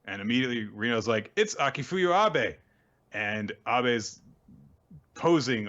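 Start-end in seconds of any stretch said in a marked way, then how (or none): 1.3-2.5 high, excited character voice; mock awe. Retelling Reno recognizing the famous exorcist, in high mock awe. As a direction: imitate an awestruck girl announcing a star. Acts out awestruck girl naming exorcist.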